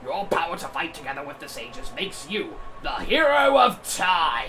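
loud proclamation, rising to a shout; dramatic shout. Acted. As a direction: boom out the heroic title. Dramatic reading of sage speech.

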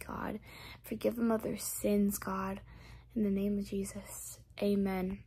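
earnest spoken prayer. Real, not acted. Speaker praying aloud over each viewer. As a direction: pray over them from the heart.

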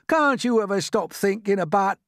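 high-pitched irritated scolding; exasperated earthworm. A narrator's reading. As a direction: scold until cut off mid-sentence. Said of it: "said the earthworm".

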